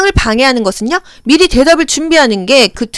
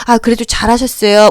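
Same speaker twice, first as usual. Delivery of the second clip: encouraging praise. Shown as a demonstration. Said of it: "우쭈쭈 해줘야".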